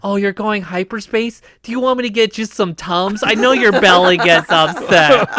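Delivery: lightly mocking fussy helper voice; mock the fussing aide offering antacids; a hint of a doting assistant. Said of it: "he's all like".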